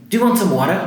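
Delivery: lightly imitated Maine host accent. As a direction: offer the water in a thick Maine accent. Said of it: "sotaque já bastante carregado".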